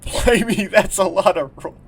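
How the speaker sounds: high, loud mock-British exclamation; hammed-up British sailor voice; British accent. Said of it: "Kai is British".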